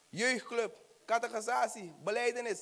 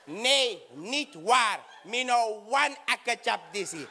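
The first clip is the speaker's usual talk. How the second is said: customs officer voice; 2 semitones higher, 4 dB louder, slower than usual. Acted. Officer refuses.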